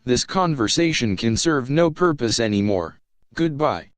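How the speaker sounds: calm HAL-like computer voice; unhurried polite AI, eerily calm; calm ship computer. Acted.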